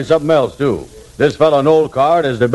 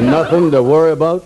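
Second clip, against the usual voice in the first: higher-pitched, disbelieving echo; incredulous question; 5 semitones higher than usual. Acted. Andy doubts Kingfish's reassurance, incredulous.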